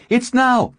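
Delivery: high, loud battle call; urgent shout. Acted. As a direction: yell it across the field. Battle cry.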